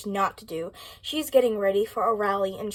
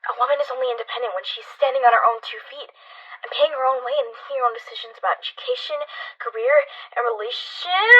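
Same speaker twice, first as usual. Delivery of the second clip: paced delivery; 3 semitones higher, 4 dB louder, faster than usual. Shown as a demonstration. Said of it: "you kinda just gotta go".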